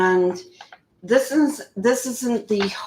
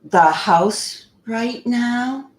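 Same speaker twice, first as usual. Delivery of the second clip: slow, higher mock child; drawn-out little-kid mimicry, pitched up; six-year-old voice; 4 semitones higher, slower than usual. Asking him about the search, mock six-year-old voice. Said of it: "in her six-year-old voice".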